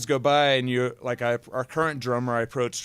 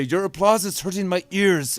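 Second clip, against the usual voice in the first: mock German accent; 6 semitones higher, 3 dB louder than usual. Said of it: "my terrible German accent".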